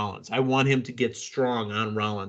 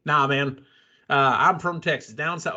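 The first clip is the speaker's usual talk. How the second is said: put-on Texas accent. Podcaster retelling an actor's TV role, light Texas accent. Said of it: "in, like, a pure Texas accent".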